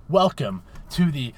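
loud hype-man intro; announcer shout. Acted. Hyped podcast segment intro.

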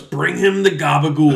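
Dwight impression. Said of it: "and Dwight goes".

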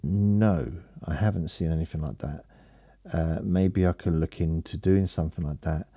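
talking around a phone held in mouth; words muffled by a phone between teeth. Real, not acted. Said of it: "I'm holding the phone in my mouth".

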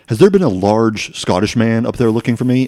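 hint of an eccentric caller, projected; crazy woman caller. Clerk imitating crazy woman phoning the store, lightly voiced. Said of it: "recognize her voice and the way she talks".

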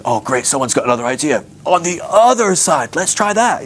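sarcastic enthusiasm. Acted. Fishermen doubting the stranger's idea.

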